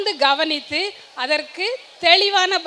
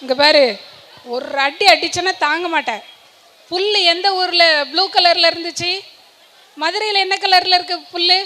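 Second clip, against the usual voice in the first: a touch of a cross tiger scolding the donkey; lightly voiced tiger, losing patience; mock-angry tiger telling the donkey off; mildly angry tiger. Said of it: "புலிக்கு கொஞ்சம் கோவம் வந்துச்சு".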